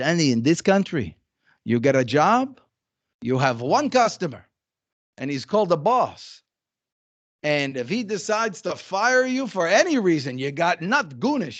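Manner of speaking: put-on a touch of French-based accent. Retelling a man's words to Danny, in his little French Jewish accent. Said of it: "with his little French Jewish accent".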